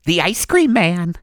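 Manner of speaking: high, sobbing villain confession; crying Chucky. Acted. Chucky confessing to the host, crying and shouting. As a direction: wail the confession as the killer mascot. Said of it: "too close to Chucky's voice".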